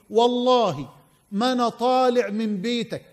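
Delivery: put-on old man's vow in Egyptian colloquial; Egyptian dialect. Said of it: "باللهجة المصرية يقول له".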